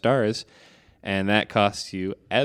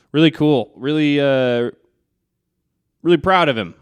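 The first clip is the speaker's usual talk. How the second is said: excited; 4 semitones higher, 6 dB louder than usual. Real, not acted. Enthusiastic praise for friend.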